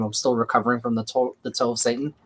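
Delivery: slight lisp on the s sounds. Real, not acted. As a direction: talk with a small lisp. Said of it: "I have a little bit of a lisp going on right now".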